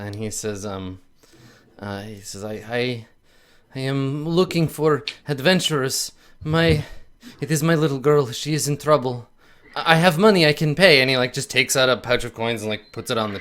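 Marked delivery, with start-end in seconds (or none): 2.4-11.0 holding back tears. Acted. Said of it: "struggling ... without getting upset".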